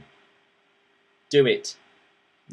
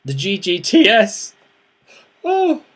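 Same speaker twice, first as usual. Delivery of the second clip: louder, higher, playfully overcome; mock emotional; 7 semitones higher, 6 dB louder, slower than usual. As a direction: blurt it out, then a high, loud "oh". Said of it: "sorry, I'm getting a bit emotional".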